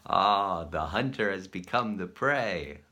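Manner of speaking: a loud, slow gloating "Ah"; smug gloating thought; smug inner voice. Retold or imitated. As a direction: savour it like a sly hunter. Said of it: "This is bad Joshua".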